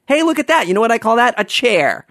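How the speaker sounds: high mock-clever announcing voice; sarcastic parody. Parodying coworker's lame joke, high sarcastic voice.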